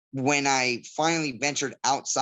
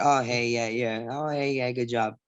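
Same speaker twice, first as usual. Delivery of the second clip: mock golf-clap politeness; polite, lukewarm approval. Fighter imitating fans politely greeting a Brazilian fighter, lukewarm. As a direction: imitate a crowd being mildly supportive. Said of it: "the polite golf claps".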